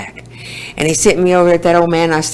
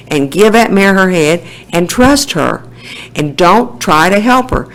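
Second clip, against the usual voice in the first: imitating Mister Pat; 2 semitones higher, 3 dB louder than usual. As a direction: play the gruff old teacher coaching his student, pushing it up. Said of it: "and he said".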